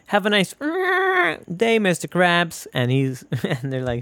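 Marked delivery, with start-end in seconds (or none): 0.1-2.7 high-pitched chirpy cartoon line with bleep noise; cartoon character greeting. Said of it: "making the dolphin noises".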